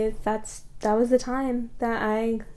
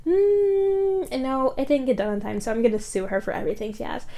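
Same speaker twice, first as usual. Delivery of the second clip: mocking client voice; 3 semitones higher than usual.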